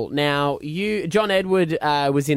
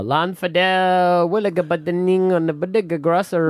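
put-on Indian accent. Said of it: "Why are you doing an Indian accent?".

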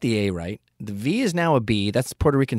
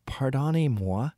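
put-on French accent; 5 semitones higher, slower than usual. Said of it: "And I said".

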